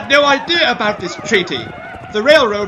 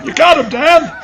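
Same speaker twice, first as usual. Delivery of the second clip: urgent shout; 2 semitones higher than usual. Acted. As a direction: yell at him to act. Urging during the fight.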